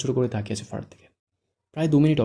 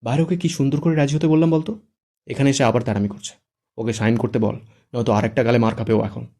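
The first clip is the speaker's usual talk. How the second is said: louder exasperated complaint; angry; 6 dB louder than usual. Acted. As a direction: vent frustration loudly. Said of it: "শুদ্ধ রেগে বলে".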